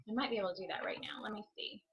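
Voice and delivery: quick whispered aside under the breath; whispering to herself. Real, not acted. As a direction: murmur it while checking something. Checks the comments under her breath.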